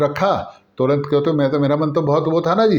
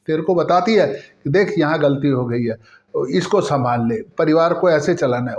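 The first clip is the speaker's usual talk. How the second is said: mother's advice. Retold or imitated. Mother on the phone lecturing her crying daughter about her mother-in-law, raised and insistent. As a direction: scold gently but firmly, like a mom setting her straight. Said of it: "तो कहने लगी".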